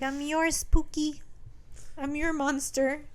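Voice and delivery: slow, drawn-out menace; creepy captor. Retold or imitated. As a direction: savour each word slowly.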